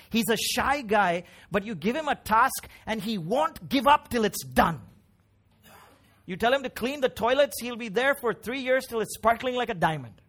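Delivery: emphatic sermon delivery; impassioned preaching. Acted. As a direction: preach it with rising, emphatic fervour. Preacher at full force.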